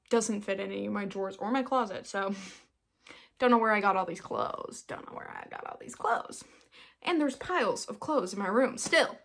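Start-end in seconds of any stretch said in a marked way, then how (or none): 4.9-6.4 very low, soft echo; low muttered repeat. Pretend. Baffled by her piles of laundry, low muttering. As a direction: drop it to a quiet low mutter.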